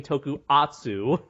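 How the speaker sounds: Tokuatsu with the first S dropped; mimicked mispronunciation. Shown as a demonstration. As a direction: say "toku-atsu", no S after toku. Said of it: "at least you're not saying".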